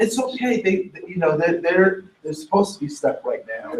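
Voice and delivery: put-on calm a child gently; mother comforting her crying daughter softly; soothing. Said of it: "I said".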